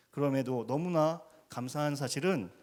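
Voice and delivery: ordinary delivery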